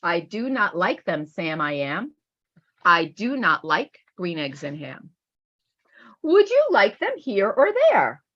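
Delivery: lively storybook reading, bouncing between the two characters; read-aloud voice. Acted. Teacher reading a Seuss book aloud, lively storybook voice. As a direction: read it out like a picture book to a class.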